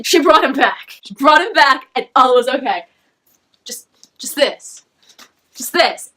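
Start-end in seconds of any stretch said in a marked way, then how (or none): 3.6-6.1 awed whisper. Real, not acted. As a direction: whisper it, slow and hushed. Whispered awe after scene.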